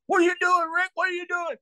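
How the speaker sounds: high loud startled question; surprised shout. Retold or imitated. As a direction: call out in disbelief at the runaway. Bob Armstrong shouting surprise.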